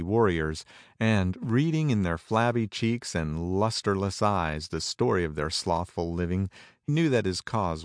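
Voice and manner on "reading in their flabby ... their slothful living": usual speaking voice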